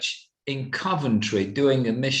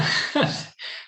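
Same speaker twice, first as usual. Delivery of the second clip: choked sob-laugh. Real, not acted. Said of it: "I get emotional".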